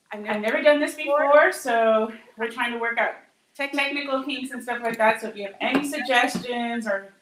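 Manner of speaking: catching her breath after dancing; breathless, still winded. Real, not acted. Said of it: "sorry, I'm catching my breath".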